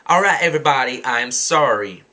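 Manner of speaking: resigned apology, falling at the end; giving-up apology. Retold or imitated. Girl gives up and apologizes to everybody, resigned. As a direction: give in and apologize without the attitude. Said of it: "finally just gives up and says".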